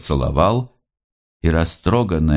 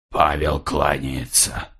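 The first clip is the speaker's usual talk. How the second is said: lower, softer, slow; strange voice; 3 semitones lower, 4 dB quieter, slower than usual. A narrator's reading. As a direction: say it heavily and oddly. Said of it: "странным голосом". (странным глухим голосом, медленно)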